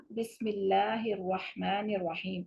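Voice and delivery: slow measured recitation. Shown as a demonstration. Teacher recites the tasmiya for the class. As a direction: recite the bismillah with care.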